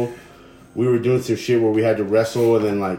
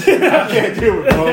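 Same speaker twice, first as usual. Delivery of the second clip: whining through laughter, slow and higher; mock give-up, cracking up; laughing whine; 9 semitones higher, 5 dB louder, slower than usual. Imitating friend giving up, laughing.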